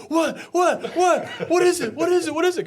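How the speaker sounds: high, loud, frantic questioning; repeated high-pitched yelps of alarm; imitated panicked wife. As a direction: mimic a startled wife shrieking questions. Imitates his panicked, clueless wife.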